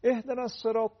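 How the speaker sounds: "الصراط" ending on a heavy ط. Shown as a demonstration. Teacher showing viewers the ta, heavy "الصراط". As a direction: press the tongue to the palate for the ط of "الصراط". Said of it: "تا هم داره دیگه".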